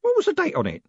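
put-on high quavering old man; eager old postman. A narrator's reading. Grote voice held.

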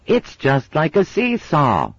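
put-on high, slow happy little girl; a child loving the ducking; delighted child. A narrator's reading.

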